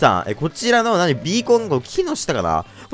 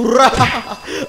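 long high drawn-out battle yell; battle cry; 9 semitones higher, much slower than usual. Real, not acted. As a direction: roar it out as you strike. Attacking in the game.

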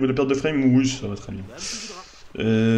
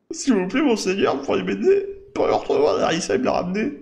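high-pitched, pleading villager voice; desperate villager; 4 semitones higher than usual. Acted. Villager begs the hero to find his lost beloved, desperate. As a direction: beg helplessly in a raised voice.

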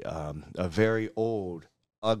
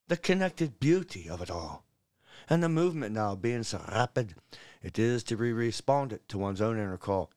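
lilting Scottish bard reciting a blessing; put-on Scottish poetry recital; Scottish accent; 3 semitones higher than usual. Shown as a demonstration. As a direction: recite it in a Scottish accent, savouring each rhyme. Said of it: "it sounds better in a Scottish accent".

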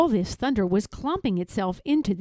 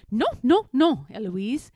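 Nanny yelling; 3 semitones higher, 3 dB louder than usual. A narrator's reading. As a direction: scold in a contained yell. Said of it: "Nanny comes in yelling".

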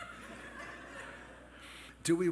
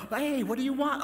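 a high, loud, snappy hey from an annoyed nurse; impatient nurse; 9 semitones higher, 4 dB louder than usual. Retold or imitated. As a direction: bark it like a fed-up nurse. Impatient nurse answers the call.

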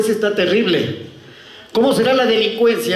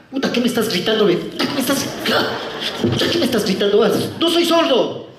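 irritated protest; 5 semitones higher than usual. Acted. Acted officer protesting at shouting.

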